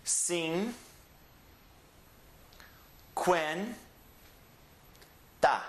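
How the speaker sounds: Qua, ren, ta split with long pauses; syllable by syllable. Shown as a demonstration. Teacher dividing cuarenta into syllables for students. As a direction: break the word into slow separate beats. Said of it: "The syllables are".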